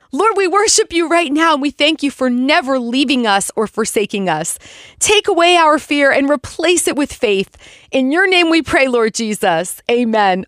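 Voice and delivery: earnest spoken prayer. Real, not acted. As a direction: pray over the listeners. Closing prayer.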